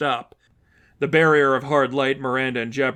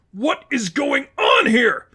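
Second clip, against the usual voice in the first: much higher, slow bewildered yell; trapped giant yells in disbelief; confused shout; 12 semitones higher, 4 dB louder, slower than usual. Acted. Villain pinned in his armor.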